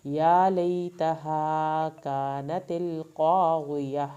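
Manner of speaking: slow melodic tajweed recitation; measured Quranic chant, vowels stretched. Shown as a demonstration. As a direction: recite it slowly, drawing out every long vowel. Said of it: "آخر میں ہا کی آواز نکلے گی".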